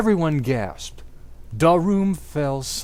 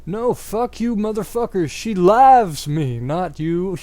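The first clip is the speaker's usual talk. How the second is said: higher, louder angry shout; hammed-up angry shout; 6 semitones higher, 6 dB louder than usual. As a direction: shout it at Draco. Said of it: "shouted Vampire".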